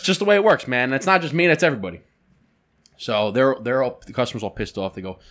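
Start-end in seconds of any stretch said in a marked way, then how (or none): 0.0-2.0 high, sing-song excuse voice; mocking whiny excuse. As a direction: parrot his lame excuse back.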